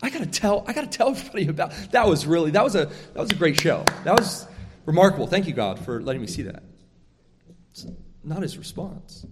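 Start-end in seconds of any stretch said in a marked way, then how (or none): 0.0-6.6 quick, breathless mock excitement after a show; awestruck gushing. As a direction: gush like a kid leaving a great movie. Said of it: "would be going".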